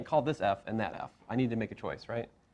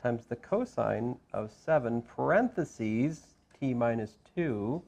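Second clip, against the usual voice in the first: slow, parentheses given clear weight; slow down and lean on parentheses; stress on parentheses; slower than usual. Shown as a demonstration. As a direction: parentheses marked out at a slower pace. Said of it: "I'm emphasizing the word parentheses".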